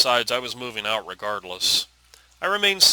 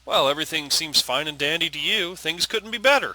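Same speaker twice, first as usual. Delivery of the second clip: higher-pitched, rising sarcasm; angry; 6 semitones higher, 3 dB louder than usual. Acted. Daughter snapping at her father over grandfather's death, angry. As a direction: throw it at him, voice climbing. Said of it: "it made me feel so angry".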